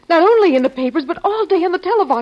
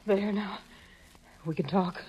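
low, much softer hushed voice; 7 semitones lower, 6 dB quieter than usual. Acted. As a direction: keep it down, someone may hear. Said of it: "Shh. Quiet".

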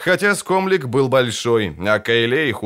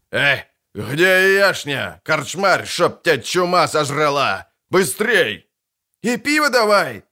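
rowdy shouting drinker; 4 semitones higher than usual. Acted. Rowdy drinker calling innkeeper.

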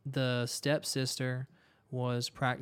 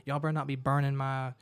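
louder imitation of a freaked-out mom; retold scolding, raised voice; mock angry rant; 4 dB louder than usual. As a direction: imitate mom cussing people out, trailing into filler. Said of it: "She's cussing us out".

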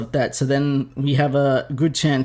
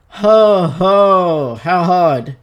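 sputtering mock outrage; 3 semitones higher, 6 dB louder, much slower than usual. God cursing Adam.

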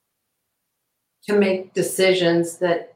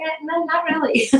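mock dismissive; 10 semitones higher than usual. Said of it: "I'm like".

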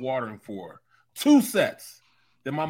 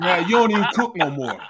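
sassy daughter; 5 semitones higher, 7 dB louder than usual. Retold or imitated. Daughter mocking.

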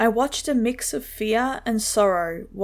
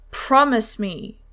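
slow, louder insistence on promise; raised voice; 4 dB louder, slower than usual. Acted. Father pressing his son to promise, raised voice. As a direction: press the promise, slower and firmer. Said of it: "He raised his voice".

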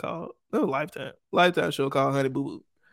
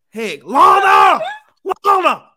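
high, loud drawn-out holler; mock yelling; 11 semitones higher, 11 dB louder, slower than usual. Calling Honey Boo Boo by real name, loud mock yell. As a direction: scream the name as if summoning her.

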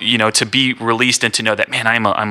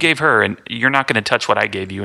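a light hint of a little kid, higher; playing a toddler brushing off his toy; little son's voice; 4 semitones higher than usual. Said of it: "he just sits there and is like".

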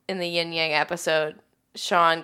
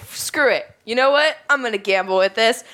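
punchy, emphatic throw-caution-away delivery; decide on the spot and punch each action out; mock reckless resolve; 3 semitones higher, 4 dB louder than usual. Imitating Jeff gambling with the rice, mock reckless.

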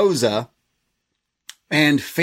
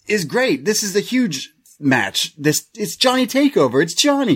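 hammed-up wrestler boast, higher; mock promo voice; 6 semitones higher than usual. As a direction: boast like a cocky wrestler on the mic.

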